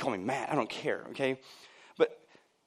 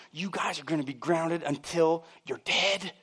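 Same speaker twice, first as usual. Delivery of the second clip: slow, measured mock-mom threat; scolding mom; 4 dB quieter, slower than usual. Mom threatening her kids before the phone rings, scolding. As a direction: lightly imitate a mother spelling out the punishment.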